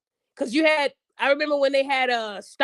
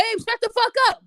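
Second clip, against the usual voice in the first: put-on fed-up boyfriend; 9 semitones higher than usual. Man cutting off the rant.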